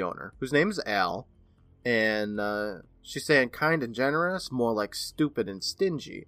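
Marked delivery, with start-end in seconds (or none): 3.0-6.2 put-on light Brooklyn accent on the quote. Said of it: "I can't just not do a Brooklyn accent".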